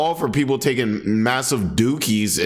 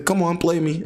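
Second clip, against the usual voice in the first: higher mock English footballer; English accent; 7 semitones higher than usual. Player asking a teammate for the ball, mock English accent. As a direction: ham up an English player calling for it. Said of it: "the English accent when it comes to soccer terms".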